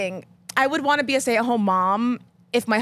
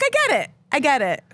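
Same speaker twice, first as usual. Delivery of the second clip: much higher, mock-wounded; resigned quote; 5 semitones higher, faster than usual. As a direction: squeak it out, hurt but agreeing. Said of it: "I'm like".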